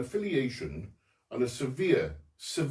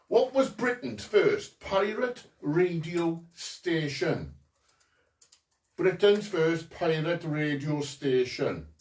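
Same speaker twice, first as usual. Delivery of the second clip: put-on slow, lilting Welsh accent. Quizmaster asking pirate radio question, in a Welsh accent. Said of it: "do it all in a Welsh accent".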